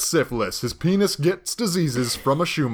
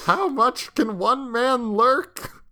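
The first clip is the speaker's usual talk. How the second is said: dramatic; 10 semitones higher, much slower than usual. Acted. Mock-dramatic question.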